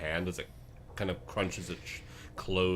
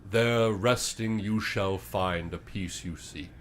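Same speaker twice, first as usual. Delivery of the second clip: slow, measured oracle voice; solemn prophecy; slower than usual. Acted. Creature slowly delivers the prophecy to the party. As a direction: intone it like an ancient seer.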